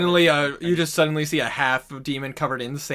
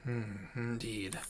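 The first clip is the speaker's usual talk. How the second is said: low-key murmured agreement, slow and soft; grave demon-slayer; 4 semitones lower, 11 dB quieter, much slower than usual. Acted. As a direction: agree quietly, taking your time. Character answers in held voice.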